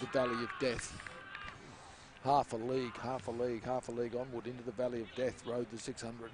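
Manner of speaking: measured recital of verse; poetry recital. Shown as a demonstration. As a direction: recite it like a poem. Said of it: "when you do poetry".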